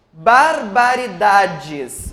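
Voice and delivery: BARBARIDADES slowly by syllables, weight on DA; stress on DA. Shown as a demonstration. Teacher showing where the stress lies, slow BARBARIDADES with strong DA. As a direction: measure out BARBARIDADES, leaning on the DA before DES. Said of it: "Dá e o ba".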